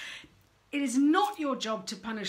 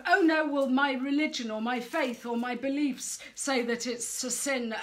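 mock pious parent; 3 semitones higher, 4 dB louder than usual. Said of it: "if you're a prude".

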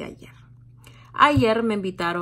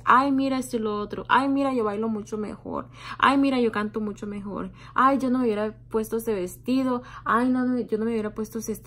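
catty gossiping women; 3 semitones higher than usual. Retold or imitated. Imitating grown women trashing contestants, mocking gossip voice. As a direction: sneer "ay, mira" like a snide lady at the table, then trail off. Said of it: "hablando horrible sobre las participantes".

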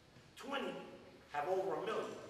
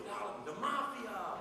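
slow answer; much slower than usual. Retold or imitated. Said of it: "I said, "Who runs Saint Louis?".

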